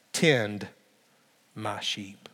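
a hushed, gentle command; a quiet final charge; low soft charge. Pretend. Jesus' last quiet charge.

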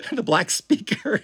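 laughing through the words; giggling at the embarrassment. Real, not acted. Laughing at own story.

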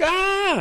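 high, small mock scream; mock frightened cry. Disciples trembling at Jesus' appearance, high mock frightened squeal. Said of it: "They're, like, trembling".

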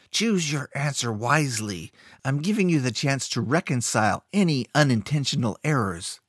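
menacing words through clenched teeth; through gritted teeth. Acted. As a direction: keep your jaw locked, threaten. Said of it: "He spoke through gritted teeth".

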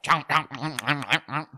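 mock chewing noise; imitated chomping. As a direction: chomp it out like a dog eating. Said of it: "he'd be like".

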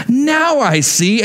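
high, slow imitated realisation; mock wonderstruck kid; Lulu. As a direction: repeat a child's delighted discovery, stretched out. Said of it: "That was exactly what she said".

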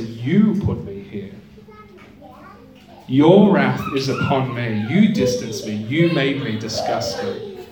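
"You" leaned on in "You put me here"; "You distanced me" with the weight on "You"; stress on You. Shown as a demonstration. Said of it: "No, they say".

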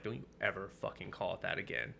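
low-key, controlled retold anger; quiet warning, held down. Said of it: "she had never seen me so angry".

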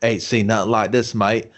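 put-on botched British accent turning Australian; attempted Australian accent. Quoting the film's Brit, accidentally Australian accent. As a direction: imitate a bad accent, slipping into Australian. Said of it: "Oh, that was Australian".

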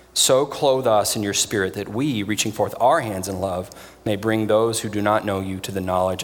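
solemn, steady prayer read aloud. Acted. Pastor reading the mission collect to the congregation, solemn prayer.

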